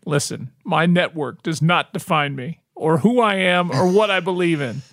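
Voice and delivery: hoarse, raspy voice. Real, not acted. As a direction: talk through a raspy throat. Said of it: "My voice is so raspy right now".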